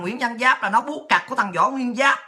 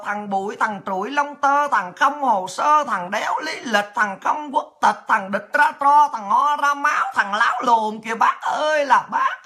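mock lament. Mock wailing to Uncle Ho.

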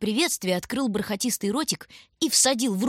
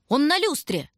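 higher, spotting him; excited cry; 8 semitones higher, 3 dB louder than usual. A narrator's reading. Toys spot the bear.

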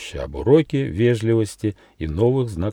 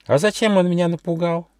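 much higher squeaky mouse voice, drowsy; sleepy little mouse; 10 semitones higher than usual. Acted. Mouse Gosha waking up asks the gnome, high mouse voice. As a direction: peek out with one eye and ask sleepily.

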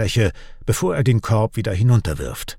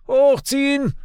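calling out. A narrator's reading. Father to his son up on the wall, calling out. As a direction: call an order up to someone. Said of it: "ruft Finn seinem älteren Sohn Gale zu".

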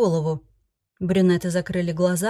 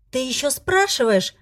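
a higher, mild furious squeal; furious shriek; 5 semitones higher than usual. Acted. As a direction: squeal it out in rage. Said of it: "яростно взвизгнула я". (яростный визг, выше)

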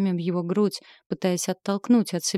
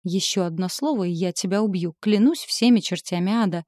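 mild wail of rage. Acted. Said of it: "взвыла я".

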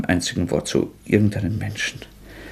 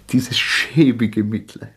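bitter whisper; slower than usual. Acted. Self-disgust, hushed.

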